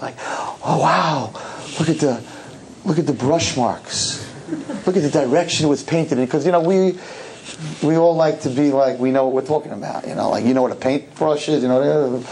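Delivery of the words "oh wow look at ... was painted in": lightly mocked admiration; pretend art connoisseur. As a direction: make a show of marveling like a would-be expert. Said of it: "make believe that you're a connoisseur of art".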